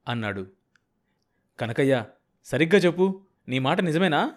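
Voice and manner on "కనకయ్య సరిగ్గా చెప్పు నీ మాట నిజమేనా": raised, earnest entreaty; pleading. A narrator's reading. Sambayya begging Kanakayya for the truth, pleading. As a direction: beg him to confirm it is true. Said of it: "ప్రాధేయపూర్వకంగా అడిగాడు సాంబయ్య".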